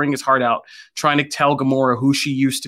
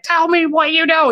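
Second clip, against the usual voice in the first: mock interrogation; 14 semitones higher than usual. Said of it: "And Gamora's like".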